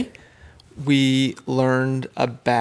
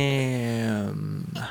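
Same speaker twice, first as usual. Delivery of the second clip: said fast; 5 semitones lower, 9 dB quieter than usual. Shown as a demonstration. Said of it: "Say it slow".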